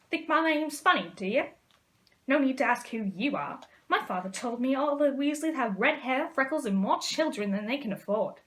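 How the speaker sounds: mock the boy's family; sneering taunt. Malfoy mocking Ron's family, loud and sneering.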